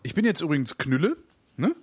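slightly tipsy speech. Real, not acted. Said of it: "Man hört so ein bisschen".

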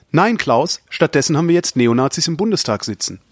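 lively, projected read-out voice; reading listener mail aloud. Acted. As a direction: present the listener's question to the audience. Reads out listener question, answers it.

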